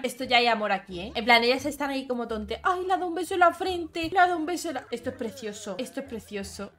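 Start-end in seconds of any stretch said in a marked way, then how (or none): 2.6-4.9 much higher, gasping with delight; excited squeal. Real, not acted. Player sees a forehead kiss, excited squeal. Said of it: "Estoy emocionada". 4.9-6.7 soft awe. Real, not acted. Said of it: "Estoy emocionada".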